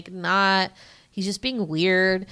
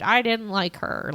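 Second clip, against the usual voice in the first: lightly voiced interviewee, near usual pitch; husband's quote; 3 semitones higher than usual. Recapping the couple's interview, his understated side. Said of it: "and they're like".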